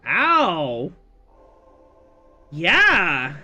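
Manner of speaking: loud whoop; excited cheer. Real, not acted.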